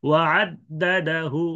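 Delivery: slow ওয়া আদ্দাদাহু with a faint হু; rawm stop. Shown as a demonstration. Teacher showing the rawm stop. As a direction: let a light উ sound on আদ্দাদাহু. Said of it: "রুম".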